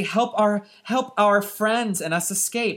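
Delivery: high gnome plea; a hint of a small pleading gnome. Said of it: "They say".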